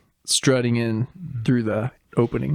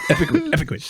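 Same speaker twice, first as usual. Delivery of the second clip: mock cheer; 6 semitones higher, much faster than usual. Echoing the dabbing cheer.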